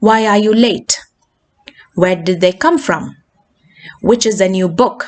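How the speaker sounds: "late", "from" and "book" dropping; falling wh-questions. Shown as a demonstration. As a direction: ask normally, letting "late", "from", "book" fall. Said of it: "uttered in a normal way".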